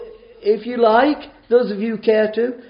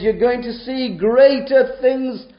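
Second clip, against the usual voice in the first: voicing Jesus; 5 semitones higher, slower than usual. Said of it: "he says".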